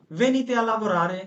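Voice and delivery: "Venite a lavorare" drawn out slowly; slow teaching demo. Shown as a demonstration. Teacher modelling the plural command, slow. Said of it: "আর একের অধিক হইলে".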